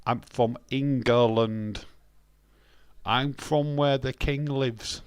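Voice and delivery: slow, drawn-out emphasis on each word; slow explaining. Acted. Streamer insisting to a viewer where they come from, slow and emphatic. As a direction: spell it out slowly for someone confused.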